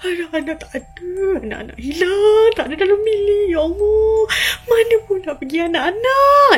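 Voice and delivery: high, wailing dismay; acted panic. Mother finds her children missing, panicked wail.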